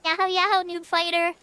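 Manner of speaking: high bubbly cheer; cute anime streamer. Acted. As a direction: chirp it out like an anime girl. Playful greeting in game.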